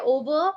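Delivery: "over" set apart, pause following; first half "over" on its own; pause after OVER. Shown as a demonstration. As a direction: say "over" alone, then stop before "whelming". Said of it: "then just take a pause".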